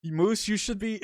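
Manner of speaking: breaking into laughter mid-read; can't keep a straight face; laughing. Real, not acted. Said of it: "I can't even read this with a straight face".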